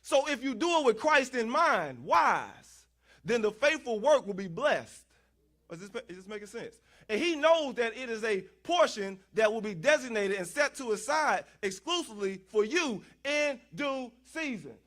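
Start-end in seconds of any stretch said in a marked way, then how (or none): 0.0-5.0 forceful, punched-out preaching; emphatic preaching. Real, not acted. Preacher promising blessing for faithful work, emphatic preaching. 7.1-14.7 measured, insistent preacher's cadence; emphatic preaching. Real, not acted. Preacher assuring congregation of their set-aside portion, emphatic preaching.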